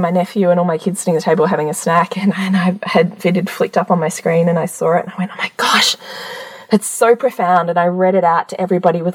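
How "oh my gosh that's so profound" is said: hushed, awed opening; retold reverence, starting almost without voice; reverent tone. Mum reading a quote out to the family, reverent and awed. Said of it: "like, this reverent tone of".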